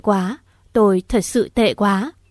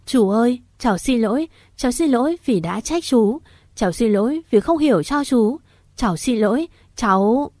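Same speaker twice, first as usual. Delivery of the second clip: tearful apology; 3 semitones higher than usual. Acted. Tearful apology hugging uncle.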